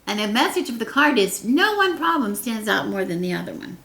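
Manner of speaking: ordinary delivery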